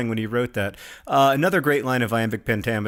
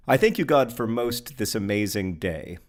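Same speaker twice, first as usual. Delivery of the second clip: poem reading. Shown as a demonstration. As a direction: launch the poem with a raised, reverent thank. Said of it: "It's called I Thank You, God".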